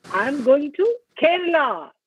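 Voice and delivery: slight hold after "to", then "Kerala" given the emphasis; stress on KERALA. Shown as a demonstration. Teacher showing how stress changes meaning, stress on "Kerala". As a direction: land firmly on the word "Kerala". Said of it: "The stress changes the meaning".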